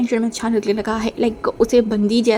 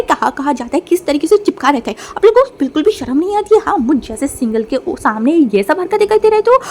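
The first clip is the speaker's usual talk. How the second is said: mock angry rant. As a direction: scold the couples, half joking. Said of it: "चिल्ला के बोला".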